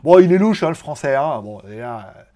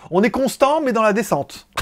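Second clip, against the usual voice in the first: laughing; 7 semitones higher than usual. Real, not acted. Joke, laughing while saying it.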